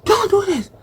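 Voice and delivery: high-pitched mock outburst; heated. Girl standing over the man she slapped, acted heated. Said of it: "she's heated and she's like".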